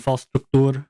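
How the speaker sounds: "Struktur" in a put-on foreign accent, long oo in the last syllable; weird accent. Shown as a demonstration. Streamer reading a game title, weird foreign accent on "Struktur". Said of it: "I'll say it with that weird accent".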